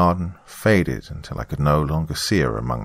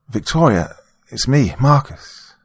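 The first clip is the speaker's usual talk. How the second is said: raised, higher voice, slowing on the name; calling through door; 7 semitones higher, 3 dB louder, slower than usual. A narrator's reading. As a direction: call gently to someone behind a door.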